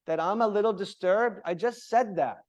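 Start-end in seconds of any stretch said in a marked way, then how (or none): 1.4-2.4 impatient. Shown as a demonstration. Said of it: "I'm impatient".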